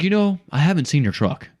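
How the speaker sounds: high, loud put-on voice of the homeowner; mock customer voice. Homeowner to pest control salesman, high mock voice.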